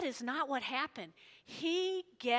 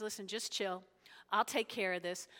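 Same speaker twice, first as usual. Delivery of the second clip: low, softer calming voice; calm reassurance; 5 semitones lower, 6 dB quieter than usual. Retold or imitated. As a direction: quietly take charge as the calm prophet. Prophet calming the panicking king.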